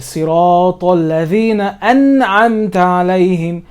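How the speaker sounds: slow Siratal ladhina, linked, then a clear hamza on an'amta; linked recitation. Shown as a demonstration. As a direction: recite slowly, alif skipped in Siratal ladhina, an'amta started afresh. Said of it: "I have to skip it".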